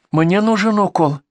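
high, slow granny voice; insistent old woman. Acted. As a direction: insist like a stubborn old patient. Old patient insists on injection.

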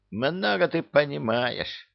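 huffy, slow, high; offended. A narrator's reading. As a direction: take offense, slowly. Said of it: "обиделся Кощей".

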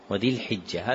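الحجة with a short i after the ha; kasra on the ha. Shown as a demonstration. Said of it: "وكسر حاء الحجة".

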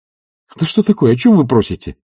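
agitated and annoyed reply; agitated, half-vexed. A narrator's reading. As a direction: brush him off with irritation. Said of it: "С волнением, почти с досадой".

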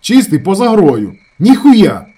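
very loud, high, slow on Чистий; stubborn yelling. A narrator's reading. Shamil yells at his brother, standing firm. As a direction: yell and refuse to budge. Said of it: "стояв на своєму Шаміль".

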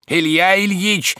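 high, drawn-out call of the name; insistent call. A narrator's reading. Servant tugging master's sleeve, insistent high call. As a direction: keep calling him, slow and high. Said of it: "твердил Захар".

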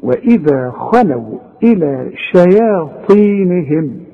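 slow recited وإذا خلوا إلى شياطينهم; tajweed recitation; Quran recitation. Shown as a demonstration. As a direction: chant it as in recitation. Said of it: "تدي كل حرف حقه".

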